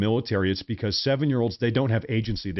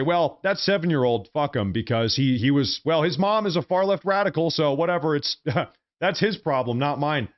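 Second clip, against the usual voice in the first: callous mock quote; 2 semitones higher than usual. Mocking a callous Christian to his viewers, light sneering voice. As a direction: toss it off like a cold-hearted bystander. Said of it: "I'm not gonna say".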